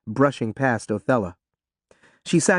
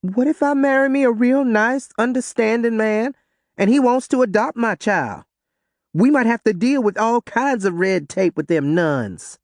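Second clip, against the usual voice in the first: firmly; 9 semitones higher than usual. A narrator's reading. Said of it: "Ruby said firmly".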